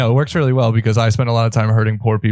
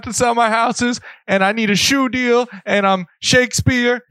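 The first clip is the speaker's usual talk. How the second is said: a rapper impression; 13 semitones higher than usual. Imitating a rapper's rant.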